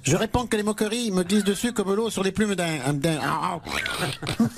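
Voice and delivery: caricatured right-wing politician, duck-like; Eric Ciotti. Acted. Mocked candidate defends himself to host, comic duck-politician voice. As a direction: break down into a quack at the end. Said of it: "le vilain petit canard de la droite".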